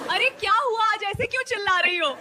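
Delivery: flustered alarm. Acted. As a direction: pitch it up like a startled husband. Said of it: "पति तुरंत घबरा कर बोला". (घबराई हुई, ऊँची आवाज़ का अभिनय)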